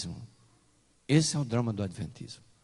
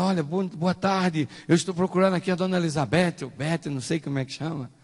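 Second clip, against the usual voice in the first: eager greeting, slightly raised; retold enthusiasm; 5 semitones higher than usual. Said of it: "eu cheguei todo entusiasmado". (saudação entusiasmada)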